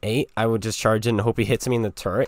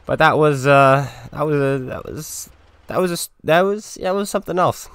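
excited; 5 semitones higher, 6 dB louder than usual. Real, not acted. Breathless after winning.

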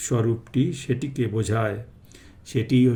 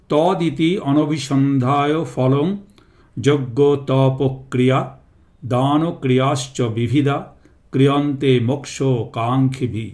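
verse recitation. Real, not acted. Recites next Sanskrit verse before translating.

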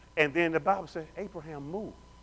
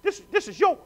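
voice of God; 9 semitones higher than usual. Acted. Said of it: "God said".

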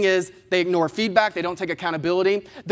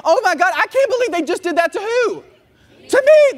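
much higher and louder, indignant disbelief; mock outrage; 12 semitones higher, 7 dB louder than usual. Speaker voicing the driver's inner outrage, loud mock indignation. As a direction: shriek it like the whole road wronged you. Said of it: "in your head you say".

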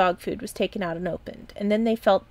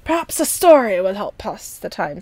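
put-on old uncle voice; 7 dB louder than usual. A narrator's reading. Old uncle offers a story.

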